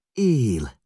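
high, loud joyful shriek; Rába shrieking in relief; shrieking cry. A narrator's reading. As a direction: cry out that he lives. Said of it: "rikoltotta Rába asszony".

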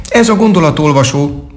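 high-pitched little squirrel character; friendly squirrel. A narrator's reading. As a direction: speak up high as a cheerful squirrel.

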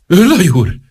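high-pitched, choking appeal; choked up. A narrator's reading. Minister appeals to the major, choked and high. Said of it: "mondta a miniszter elfulladva".

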